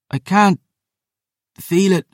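high, strained and halting; desperate. Acted. Digging in the wound with forceps, desperate and strained. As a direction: struggle with mounting desperation. Surgeon desperate, failing to find silver.

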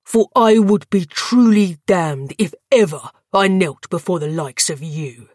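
put-on young knight defying the vampire lord with hatred; trembling with hatred. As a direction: spit out the final refusal. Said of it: "voice trembling with hatred".

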